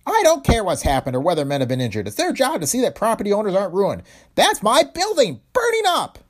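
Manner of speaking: high, loud furious tirade; angry shout. A narrator's reading. Owner raging that his building burns, furious high shout. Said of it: "He continued angrily".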